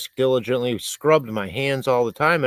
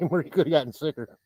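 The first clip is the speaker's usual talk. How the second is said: softer, laughing through it; 4 semitones higher, 3 dB quieter than usual. Real, not acted. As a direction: chuckle the repeated line.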